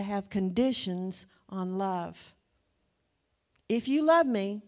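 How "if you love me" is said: higher, louder mock pleading; manipulative line. Preacher mocking a guilt-tripping lover, higher and louder. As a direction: lay on the guilt trip. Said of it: "how many have heard that?".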